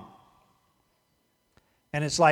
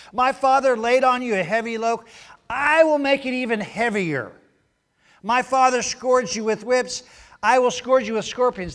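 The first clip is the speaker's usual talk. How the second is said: put-on higher and louder, a boastful young king's threat; threatening king; 7 semitones higher, 6 dB louder than usual. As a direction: puff up and threaten the crowd with raised voice. King threatens the people, voiced.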